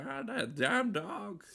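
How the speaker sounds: slow, high cartoon farmer grumble; Courage farmer impression. Imitating the farmer from Courage the Cowardly Dog, slow high grumble. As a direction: drag it out like the old farmer. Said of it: "the farmer ... he's always like".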